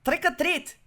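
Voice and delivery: high-pitched second go at Irish; badly faked Irish trick-or-treater; attempted Irish accent. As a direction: pipe it up in mock Irish. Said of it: "let me try it again".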